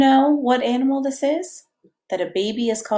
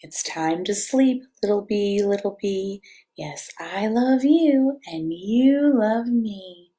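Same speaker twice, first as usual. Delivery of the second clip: slow, gentle bedtime read-aloud; cozy storybook reading; reading to children; slower than usual. A narrator's reading. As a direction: lull a toddler toward sleep. Reads picture book to child.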